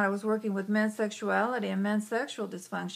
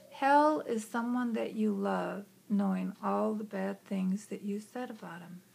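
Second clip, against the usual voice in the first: calm inner voice; 5 dB quieter than usual. Retold or imitated. Inner voice tells child what hell is, soft. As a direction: say it gently and thoughtfully.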